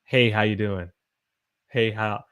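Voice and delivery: "Hey, how you doing?" run together loosely; casual run-together greeting. Shown as a demonstration. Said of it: "it flows like that".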